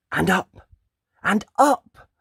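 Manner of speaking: building excitement upward; rising climb. A narrator's reading. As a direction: climb the voice with the boy. Climbing higher and higher.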